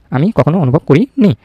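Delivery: slow dictation pace; the corrected sentence read out slowly for the class; slow model reading. Shown as a demonstration.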